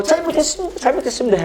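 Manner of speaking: high tearful begging; crying apology. Retold or imitated. Crying boy begging the teacher, high tearful apology. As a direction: sob out the apology again. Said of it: "제가 울면서".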